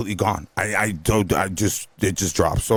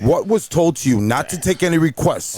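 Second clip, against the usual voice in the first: confrontational; 6 semitones higher than usual. Retold or imitated. Retold confrontation by a guest.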